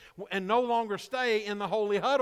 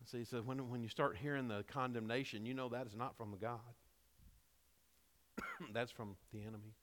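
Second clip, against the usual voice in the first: hoarse, worn-out voice; strained voice after singing; losing voice; 9 semitones lower, 14 dB quieter than usual. Real, not acted. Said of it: "Losing my voice".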